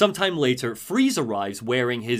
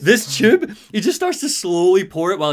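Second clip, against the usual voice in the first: laughing through the words; giggling as he tells it; 6 semitones higher, 7 dB louder than usual. Real, not acted. Telling friends a funny scene, laughing.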